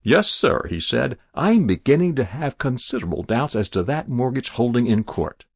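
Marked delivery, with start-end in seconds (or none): 0.0-0.6 higher, louder, newly emboldened; bolder. Acted. Jabez standing up to the stranger, bolder. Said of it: "cleared his throat and got bolder". 1.4-5.4 a touch of new-found boldness; bolder. Acted. Jabez challenging the mortgage in court, bolder. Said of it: "cleared his throat and got bolder".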